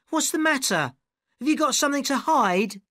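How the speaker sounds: mock his hesitation; taunting actress. A narrator's reading. Arabella taunting the narrator in front of everyone.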